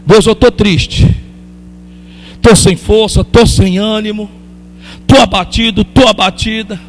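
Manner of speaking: confessing prayer, understated and sincere; spoken prayer. Pretend. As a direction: pour your heart out to God. Continues the prayer voice.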